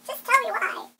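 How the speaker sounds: put-on high, loud hurt girlfriend voice; upset girlfriend. Girlfriend to boyfriend after a breakup, high loud upset voice.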